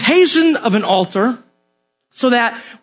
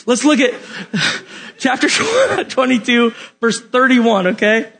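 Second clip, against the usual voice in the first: giggly odd voice; 3 semitones higher than usual. Real, not acted. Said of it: "I don't know why I'm talking like that tonight".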